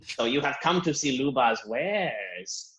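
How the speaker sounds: slow, lightly voiced alien merchant; Luba's voice. Shopkeeper Luba welcoming customers to her wares, slow and lightly voiced. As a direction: purr out the sales line slowly.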